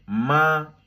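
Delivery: ma held high and flat; first tone ma. Shown as a demonstration. Teacher repeats the flat first-tone ma. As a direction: keep ma level and high. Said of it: "Avec le premier ton, tout droit".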